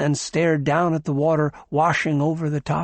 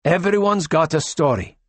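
curt; 4 semitones higher, 3 dB louder than usual. Acted. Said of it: "said Tachyon shortly".

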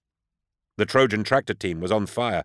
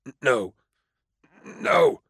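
stammered then breathless no; faltering refusal fading to a whisper; straining resistance; 3 semitones higher, slower than usual. A narrator's reading. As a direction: fight the compulsion with a whisper. Resisting the mind control.

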